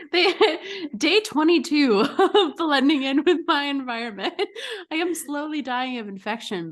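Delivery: hammed-up diary entry with a giggle; mock video diary. Camouflaged contestant logging his days, mock video diary.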